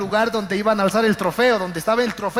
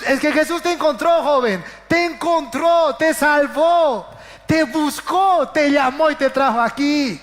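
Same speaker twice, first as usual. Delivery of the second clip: stirring pulpit cry; fervent preaching; 3 semitones higher than usual. Acted. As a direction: preach it out, drawing each phrase. Preaching to the youth.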